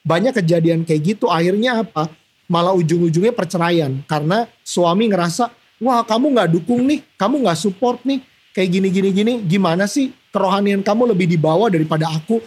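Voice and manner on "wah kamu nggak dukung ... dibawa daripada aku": voiced husband, higher, complaining; husband's complaint. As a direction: whine like a husband who feels unsupported.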